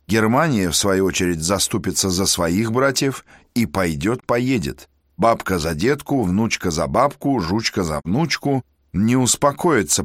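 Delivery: irritated, rising indignation; exasperated officer. Acted. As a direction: grumble it with mounting exasperation. Kozlovsky's inner monologue, raised voice.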